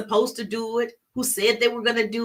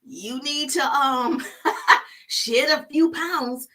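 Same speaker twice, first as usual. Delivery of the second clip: blunt tactless line; 4 semitones higher, slower than usual. Shown as a demonstration. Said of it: "You certainly can't say".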